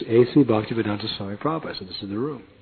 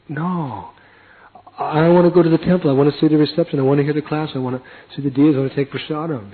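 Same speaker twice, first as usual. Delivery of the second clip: whiny protest; 4 semitones higher than usual. Retold or imitated. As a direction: plead like a sulky kid who wants to go. Whining refusal to stay behind.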